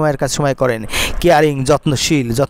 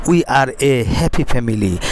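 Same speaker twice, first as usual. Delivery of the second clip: slow dictation; 4 semitones lower, much slower than usual. Shown as a demonstration. Teacher dictates model sentence.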